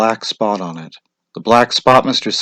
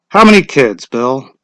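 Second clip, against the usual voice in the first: formal question; 4 semitones higher, 6 dB louder than usual. A narrator's reading. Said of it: "asked formally".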